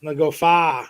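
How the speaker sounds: lightly imitated Boston accent, "far" with no R; a touch of mock Boston. Showing how they talk up there, light Boston accent. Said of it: "they got accents up there".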